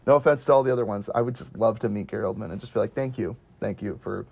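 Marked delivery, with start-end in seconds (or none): 2.9-4.3 soft, low sincere thank you; imagined hushed, earnest thanks; heartfelt thanks. Pretend. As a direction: lower your voice in quiet gratitude. Imagines thanking his favorite actor.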